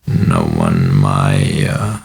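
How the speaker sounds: low, cracked, breathy groan. A narrator's reading. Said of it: "The cracked, breathy voice".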